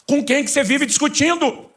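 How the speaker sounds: high, loud, slow mock question; a hammed-up high-pitched jab. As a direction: play it like they're arguing with a ghost. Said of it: "eu pergunto pra alguns".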